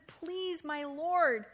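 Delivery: begging. Shown as a demonstration. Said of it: "a little begging word in there".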